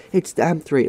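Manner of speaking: high-pitched imitation of an accusing teacher; mock ballistic teacher. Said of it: "So he was going ballistic".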